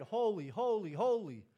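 crying out. Acted. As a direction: proclaim each word at full volume in worship. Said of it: "When the angels cried".

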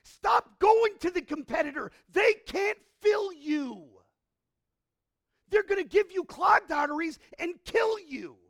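preacher shouting against false satisfaction; shouted warning. Real, not acted. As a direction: bellow the warning at the congregation. Preaching at full force.

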